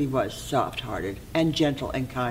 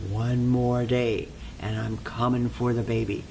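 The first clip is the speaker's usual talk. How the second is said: menacing little man; 4 semitones lower than usual. Acted. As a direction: drag it out low as a storybook villain. Little man warns as he leaves.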